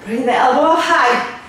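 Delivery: breathless mid-workout cue; talking while out of breath. Real, not acted. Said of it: "I'm out of breath".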